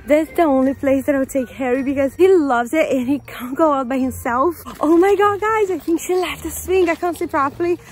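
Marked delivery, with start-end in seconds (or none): 4.8-7.8 high, eager and rushed; thrilled the swing is finally free; excited. Real, not acted.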